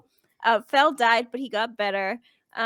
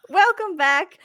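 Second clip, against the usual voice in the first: laughing; 7 semitones higher, 7 dB louder than usual. Real, not acted. Host restarts stream laughing.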